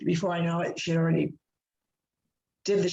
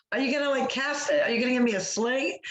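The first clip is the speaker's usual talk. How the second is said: earnest pleading question; 6 semitones higher than usual. Retold or imitated. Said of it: "I'm like".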